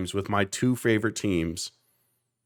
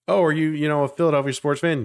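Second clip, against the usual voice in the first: eager questioner; 5 semitones higher, faster than usual. Retold or imitated. Mimicking people quizzing him.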